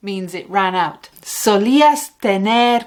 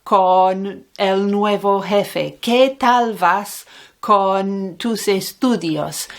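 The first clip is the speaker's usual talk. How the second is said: "¿Qué tal vas" asked slowly and clearly; slow model question; slower than usual. Shown as a demonstration. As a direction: ask it slowly so the learner can follow. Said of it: "esa pregunta".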